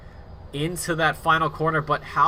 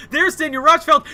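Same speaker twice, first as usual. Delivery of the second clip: shouted, much higher and louder; excited commentary; 9 semitones higher, 8 dB louder than usual. Real, not acted. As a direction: yell the name at the climax. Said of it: "I got too excited".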